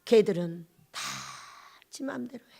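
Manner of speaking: low, hushed and fading; imitating a heartbroken father's quiet lament; choked-up sorrow. God laments children doing as they please, choked hush. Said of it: "이런 목소리였어요".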